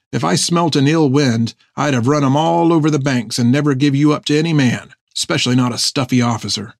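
lilting, rough-spoken seaman, mildly indignant; sailor defending himself. Acted. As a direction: play an old shipmate standing up for his loyalty. Narrator voices sailor defending himself.

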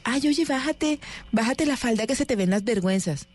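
high, prim Bogotá man's warning; prissy cachaco man. Retold or imitated. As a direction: play a fussy cachaco scolding politely. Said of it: "llega el pelado y le dice a la".

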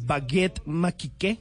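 "baguette magique" said the French way, slowly; French pronunciation. Shown as a demonstration. Host telling friends the French name, in French. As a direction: give "baguette magique" a French sound, drawn out. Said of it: "a la varita mágica se le dice".

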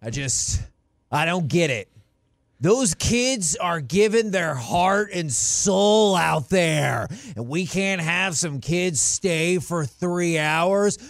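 halting start building into a mock tirade; hammed-up pleading rant about the fans; Nick Saban. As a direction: act out a coach's exasperated speech, stretching the words. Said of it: "and he's like".

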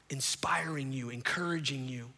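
low, hushed reassurance; gentle fatherly encouragement. Acted. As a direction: speak it softly and tenderly, almost whispering. Soft quote of Paul as fatherly.

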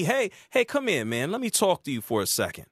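friendly mock invite. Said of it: "There's a difference between me".

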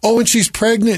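high imitated dismay; mock tearful. Ex learns of the pregnancy, mock tearful high voice. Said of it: "And she starts crying".

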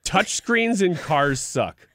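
slow, deliberate reading of a card. Shown as a demonstration. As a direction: read it out slowly, word by word. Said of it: "this just says".

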